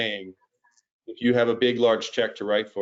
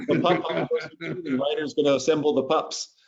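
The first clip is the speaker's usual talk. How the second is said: put-on higher little kid voice; child voice; 6 semitones higher than usual. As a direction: imitate a small child's logic. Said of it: "She said, like".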